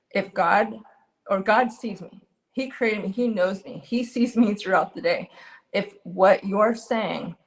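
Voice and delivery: retold measured, resolute statement; firm and calm. Wife answering husband's comment about being rebellious, firm and calm. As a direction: set it out firmly without shouting, pausing between phrases. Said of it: "I said that very firmly, very calmly".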